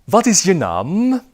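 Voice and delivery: slow clear classroom question; slow teacher demo. Shown as a demonstration. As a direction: model the question slowly for repeating. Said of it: "repeat after me".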